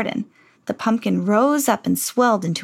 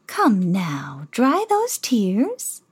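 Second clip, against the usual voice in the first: gentle whisper; much slower than usual. Acted. Fairy godmother soothes weeping Cinderella in a whisper. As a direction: whisper it kindly to a crying girl. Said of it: "said a gentle voice".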